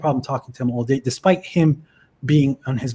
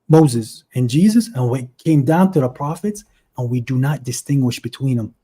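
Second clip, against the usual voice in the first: reciting scripture. Retold or imitated. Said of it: "where it says".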